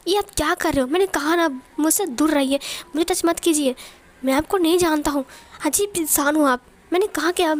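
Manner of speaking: understated acted outburst; mild acted yelling. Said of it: "विंग चिल्ला मत".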